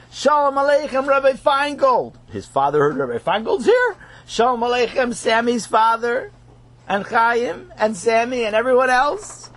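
high, bright welcoming voice; cheerful greeting. Acted. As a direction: welcome them gladly. Rebbe warmly greeting guests.

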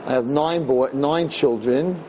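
slow, halting father voice; a hint of a weary father; lightly voiced father. Father on the phone explaining, slow and halting.

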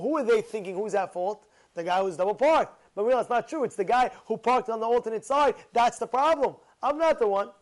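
ordinary delivery

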